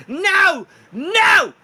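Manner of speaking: very high, loud squealing no; Lord Jimothy shouting. Acted. Fallen raccoon king refusing defeat, high panicked shouts. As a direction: screech it in a panic. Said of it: "Jimothy's like".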